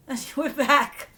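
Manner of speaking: laughing loudly through the words. Real, not acted. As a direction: reader laughs at her own gushing, loud and high. Laughing after the gush.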